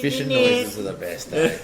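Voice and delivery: said through laughter, loud and high; laughing. Real, not acted. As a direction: talk while still laughing. Laughing at the noise imitation.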